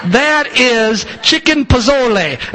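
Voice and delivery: slow, drawn-out Italian accent. Shown as a demonstration. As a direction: roll chicken pozole like an Italian. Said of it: "I say that's Italian accent".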